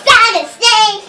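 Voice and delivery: being tickled. Real, not acted. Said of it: "He tickled me".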